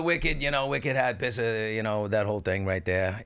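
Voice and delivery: offhand, light Boston accent. Shown as a demonstration. Asked by co-host to show it, light Boston accent. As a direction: toss off a bit of Boston accent. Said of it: "Do you have a Boston accent?".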